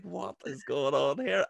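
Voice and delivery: slow robotic mock astonishment; robotic disbelief. Imitating English visitors seeing Belfast life, slow robotic disbelief. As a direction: imitate baffled onlookers, slow and drawn out. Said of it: "it's, like, robotic".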